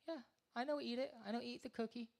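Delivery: put-on high, fast fibbing kid voice; mock little kid. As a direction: lie like a caught toddler. Kid lying in stand-up bit.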